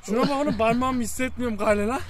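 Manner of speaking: stiff lips from the cold; words slurred by a frozen mouth. Real, not acted. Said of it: "Zor konuşuyor".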